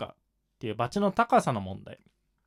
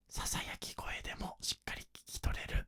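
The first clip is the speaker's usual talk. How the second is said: clear whisper; 15 dB quieter than usual. Shown as a demonstration. Teacher showing that small volume can still be understood, clearly articulated whisper. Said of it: "小さい声量だけど滑舌がはっきりしてる".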